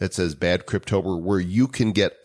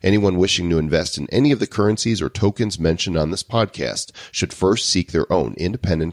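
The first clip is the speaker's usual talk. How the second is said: brisk formal disclaimer reading. Acted. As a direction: read the legal fine print evenly. Reads legal disclaimer.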